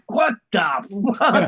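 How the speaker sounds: high, incredulous outburst; shocked disbelief. Retold or imitated. Retelling his girlfriend's mother's remark, shocked disbelief. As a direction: react as if you can't believe your ears. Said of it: "I'm like".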